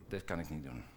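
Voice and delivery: soft, low admission of defeat; a hushed, resigned Moses; quiet defeated Moses. Acted. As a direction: let the words sink, beaten.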